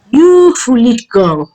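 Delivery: high, slow, drawn-out rebuke; angry yell. A narrator's reading. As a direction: scold her like an angry mother, stretching the words. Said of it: "Mike yelled at Norma".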